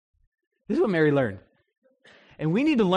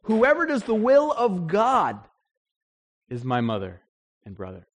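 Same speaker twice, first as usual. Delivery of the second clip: solemn Jesus; 2 semitones higher than usual. Retold or imitated. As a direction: pronounce it like a verdict. Jesus quoted declaring true family.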